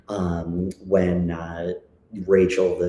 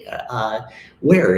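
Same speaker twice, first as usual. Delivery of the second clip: mock polite question, louder and higher on where; retold reply; 4 semitones higher, 5 dB louder than usual. Student challenging teacher, mock polite. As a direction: feign politeness, pop up the last word. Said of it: "I was like".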